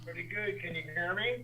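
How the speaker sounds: distant, quiet mic; from across the room. Real, not acted. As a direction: voice far from the phone. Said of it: "you sound like you're across the room".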